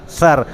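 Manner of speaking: the last syllable of "کوثر" as "thar", tongue tip out; thā demonstration. Shown as a demonstration. Teacher drills one syllable for students, "سر" said as a careful "thar". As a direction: isolate "سر" with th as in "think". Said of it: "زبان کی نوک کو باہر نکال".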